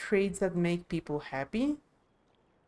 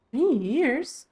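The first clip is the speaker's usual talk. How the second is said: shocked echo; 4 semitones higher, 5 dB louder than usual. Acted. Buyer repeats the price, shocked.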